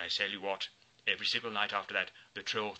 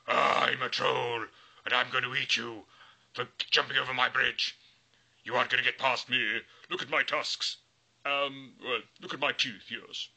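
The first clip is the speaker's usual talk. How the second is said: scary troll voice; 2 semitones higher, 4 dB louder than usual. Acted. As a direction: drag it out to scare the goat. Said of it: "very scary voice".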